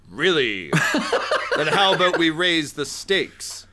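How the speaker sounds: smug rival voice. Acted. GM voices Rick.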